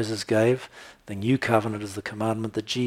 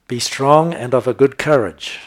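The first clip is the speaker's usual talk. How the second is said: proclaiming scripture; 3 semitones higher, 6 dB louder than usual. Acted. Preacher proclaiming scripture verse.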